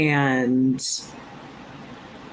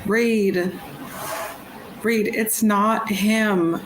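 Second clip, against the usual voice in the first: raised-pitch, insistent plea; gently insist, pleading with a friend; Agora pleading; 7 semitones higher than usual. Acted. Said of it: "like, pleading in Agora's voice".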